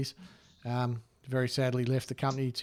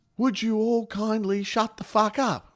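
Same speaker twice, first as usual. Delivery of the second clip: high, loud, drawn-out yell at the top of the lungs; 9 semitones higher, 5 dB louder than usual. Retelling how a friend stood up in a loud restaurant: imitating someone yelling loudly. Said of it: "he yelled at the top of his lungs".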